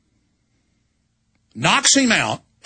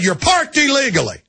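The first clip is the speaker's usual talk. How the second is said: high sneering cop voice; mock trooper; 9 semitones higher than usual. Trooper's line, acted.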